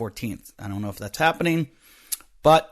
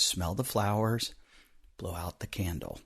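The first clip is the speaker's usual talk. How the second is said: daughter's calming advice; 4 semitones lower, 8 dB quieter than usual. Retold or imitated. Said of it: "my daughter says".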